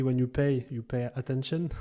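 an English saying spoken with a French accent. Shown as a demonstration. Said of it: "tu verras mon accent anglais". (expression anglaise avec l'accent français)

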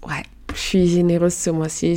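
playful whisper, breath only; whispered aside. Real, not acted. Host whispering a teasing aside to her listeners. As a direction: lean in and whisper it like a little secret.

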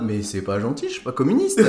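mock-hurt complaint; wounded protest. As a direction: protest like a teased schoolkid. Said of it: "j'étais en mode".

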